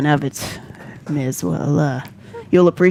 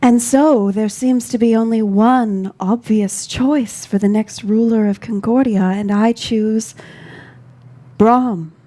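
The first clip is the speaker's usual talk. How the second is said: formal proclamation. Acted.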